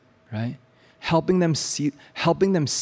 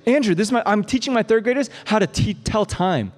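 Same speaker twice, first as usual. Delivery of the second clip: teacher voice; 7 semitones higher than usual. Retold or imitated.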